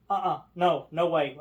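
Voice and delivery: loud, panicky no; panicked refusal. Retold or imitated. Trapped lady refusing to calm down, loud. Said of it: "she's like".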